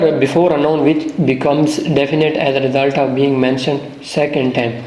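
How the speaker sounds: the rule read very slowly; slow dictation. Shown as a demonstration. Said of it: "اب دوسرا ہے جی". (قاعدہ آہستہ آہستہ لکھوانا)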